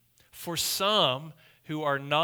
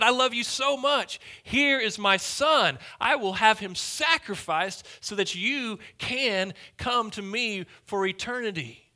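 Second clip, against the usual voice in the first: raised, loving proclamation; God speaking; 6 semitones higher, 4 dB louder than usual. Acted. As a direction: speak as God, lifted and fervent. Preacher voices God offering his son.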